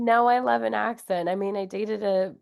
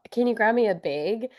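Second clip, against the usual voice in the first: lightly voiced Wisconsin mom; imitating mom's Wisconsin accent. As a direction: Wisconsin accent, bag raised toward "big". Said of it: "She'll go".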